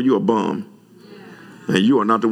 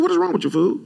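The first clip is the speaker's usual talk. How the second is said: much higher, incredulous repeat; preacher repeats his rebuke to the barber, pitched way up; retold outburst; faster than usual. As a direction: hit it even higher, exasperated. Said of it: "That's like what I said".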